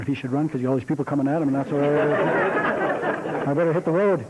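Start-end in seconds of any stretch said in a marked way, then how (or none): 1.5-4.2 laughing through the words at his own long story. Real, not acted. Coach laughing at himself for running long. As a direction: chuckle as you catch yourself.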